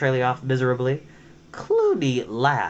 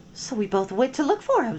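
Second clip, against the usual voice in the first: high, fearful little voice; squeaky nervous excuse; high weasel voice; 11 semitones higher, faster than usual. Acted. Seela speaks.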